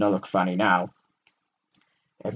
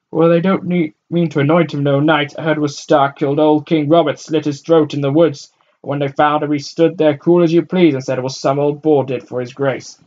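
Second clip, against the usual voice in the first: loud gossip; 5 semitones higher, 10 dB louder than usual. A narrator's reading. Crowd gossip arguing.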